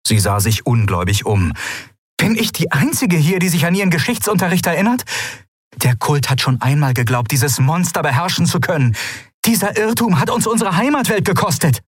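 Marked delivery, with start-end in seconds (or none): 2.2-11.8 incredulous outrage. Acted. Ruler incredulous and angry.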